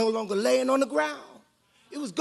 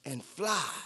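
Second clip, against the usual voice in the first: power and authority; slower than usual. Acted. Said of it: "spoke with power and authority".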